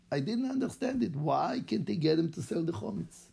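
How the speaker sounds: put-on light Israeli accent, retelling in the rabbi's own words; telling his story as the rabbi, Israeli accent. Rabbi introduces himself to listeners, light Israeli accent. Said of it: "here's how he says his story".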